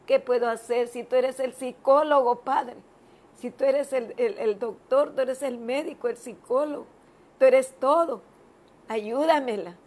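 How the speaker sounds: insistent retold appeal to God; fervent prayer, punched on key words; urgent pleading prayer. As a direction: press the plea with growing force.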